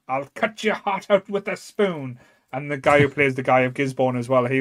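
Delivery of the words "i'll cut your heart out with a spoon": lightly acted villain, slow and higher; mock villain threat. Fan quotes the Sheriff's threat from the film, mock villain threat. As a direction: draw out the threat slowly, hamming a little.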